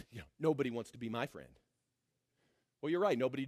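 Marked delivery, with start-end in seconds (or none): 0.1-1.5 quiet, fast, pitiful mock lament; mock whine. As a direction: mumble it like a sulking churchgoer. Mock whine of a self-pitying person.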